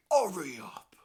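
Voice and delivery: loud, rough-edged burst; angry urging. Retold or imitated. Grandad losing patience with his grandson, angry urging. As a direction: snap it out loudly at a dawdler. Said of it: "I'm getting angry now with the grandkid".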